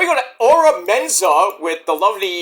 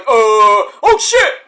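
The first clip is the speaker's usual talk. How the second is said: mock shocked; 3 semitones higher, 6 dB louder, much slower than usual. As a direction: play the late realization. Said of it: "standing there like".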